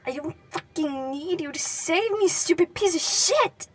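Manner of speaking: loud, high, anguished scream. Acted. Katsuki screaming at Deku's pale face, anguished. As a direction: scream the grief out at him.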